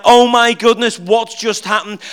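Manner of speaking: loud, thrilled gasp of amazement; excited disbelief. Retold or imitated. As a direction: burst out, buzzing with joy after the lesson. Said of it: "I'm like".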